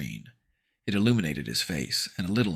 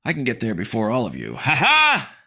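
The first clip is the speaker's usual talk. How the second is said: higher, louder gleeful taunt; mocking boy shout; 8 semitones higher, 8 dB louder than usual. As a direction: crow it with a laugh. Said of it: "the guy shouted".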